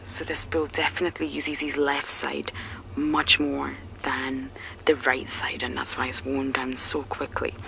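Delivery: hushed safari whisper. Real, not acted. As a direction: whisper so the elephants stay calm. Whispering near the elephants.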